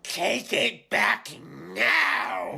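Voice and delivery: slow, rising menace; building threat. Acted. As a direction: push harder each word. Demand repeated, rising.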